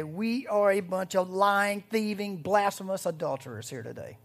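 mock confession. Shown as a demonstration. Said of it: "come clean and say".

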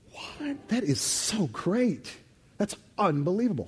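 very high gasped what, then slow, stretched wonder; amazed delight. Acted. Pastor modelling awe for the church, high amazed wonder. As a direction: marvel out loud as if struck by good news.

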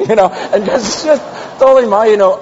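laughing through the words; words breaking into laughter. Real, not acted. Laughing while retelling.

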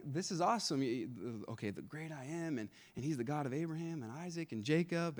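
a touch of stunned Moses; Moses' hushed wonder. Retold or imitated. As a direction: marvel quietly like Moses can't believe it. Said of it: "I'm sure Moses was thinking".

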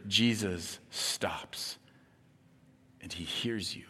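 slow, hushed whisper, each word drawn out. Acted. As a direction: let it hang in a breath. Climax of the point.

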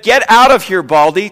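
sing-song schoolyard jeer; jeering boys. Retold or imitated. Preacher repeating the boys' taunt at Elisha, mock jeer. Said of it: "they said".

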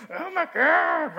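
drawn-out high mock exasperation; exasperated.

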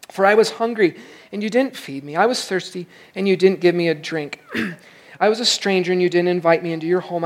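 measured Bible reading to the congregation; scripture reading. Acted. Pastor reading Matthew aloud to the congregation, measured scripture reading. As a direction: read the passage out to the church.

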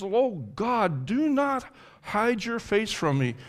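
high, imploring cry to God; earnest, high-pitched entreaty; despairing plea. Acted. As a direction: beg God from a place of despair. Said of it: "and he turns to despair".

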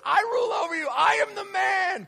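high, shouted royal boast; roaring tyrant king. Acted. Adam shouting at Eve.

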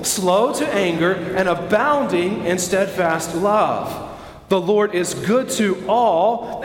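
slow, deliberate scripture reading; drawn-out phrases that a crowd can follow; reading aloud together. Real, not acted. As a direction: lead the congregation word by word. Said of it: "read out loud together".

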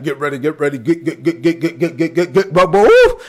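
mic-on-the-lip rapid-fire repetition bursting into a whoop; preacher impression. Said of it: "he used to put it right on his lip and be like".

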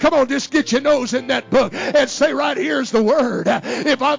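soaring, shouted, slowed preaching climax; full-force preaching. Acted. Preacher exhorting the congregation to trust the Word, shouting and half singing. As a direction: drive it home to the congregation at full voice.

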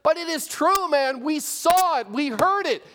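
emphatic declaration. Acted. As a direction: declare it, refuse to be doubted. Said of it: "He declared".

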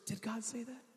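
hushed, sly question; mock the devil with a soft, sly whisper. Satan quietly planting doubt, soft mock whisper. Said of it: "he always whispers".

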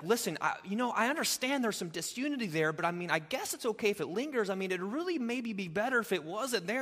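a half-hearted, easygoing plea; mock lukewarm Paul. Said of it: "that's not the heart of Paul here".

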